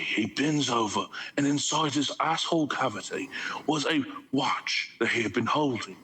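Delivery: lightly voiced Anzac soldier spinning a yarn; mock Australian war story, barely put on; bad Aussie accent. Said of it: "I can do the more southern accent".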